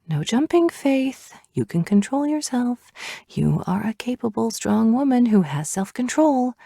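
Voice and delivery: high pleading pep talk. A narrator's reading. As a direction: plead with yourself under your breath. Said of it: "the mental pep talk thing".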